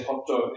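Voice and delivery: hoto, hot with an added final O vowel; Japanese-style hot. Shown as a demonstration. Teacher showing a Japanese learner's error: hoto with extra vowel. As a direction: say hoto, two syllables, with the extra O. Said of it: "they put an extra vowel".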